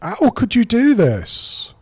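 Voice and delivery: high, loud, drawn-out mock French wail; bad French accent. Player mimics game character Annette, bad French accent. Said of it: "I say in my bad French accent".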